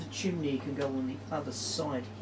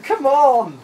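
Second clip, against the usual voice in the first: high, loud urging yell; loud cheer; 11 semitones higher, 16 dB louder than usual. Real, not acted. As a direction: yell to will the dice. Urging the dice roll.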